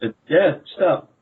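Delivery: acted flustered surrender; panicked giving in. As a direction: beg them to stop, then give in. Gives in as kicking continues.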